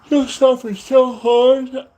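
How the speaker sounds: beast threat. Pretend. Vlogger threatens his enemies as a beast, slow mock monster voice.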